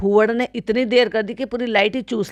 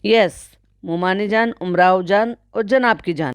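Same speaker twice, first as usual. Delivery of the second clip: mock drawn-out yes; 3 semitones lower than usual. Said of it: "mocking madam's address".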